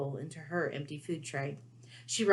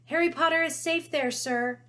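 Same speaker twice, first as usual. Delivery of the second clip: much higher squeaky elf voice; house-elf voice; 10 semitones higher, 4 dB louder than usual. A narrator's reading. Dobby calls to caged Harry from the crowd, squeaky elf voice. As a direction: pipe it up like a little house-elf.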